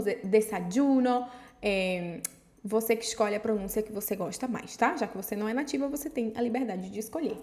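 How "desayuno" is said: desayuno with y said like dj; desayuno, y hard as dj. Shown as a demonstration. Teacher showing a third way to say desayuno. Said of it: "vai mudar muito a pronúncia segundo o país".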